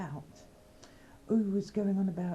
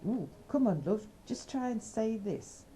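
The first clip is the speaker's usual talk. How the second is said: coaxing; 7 semitones higher than usual. Retold or imitated. Coaxing someone to try accent.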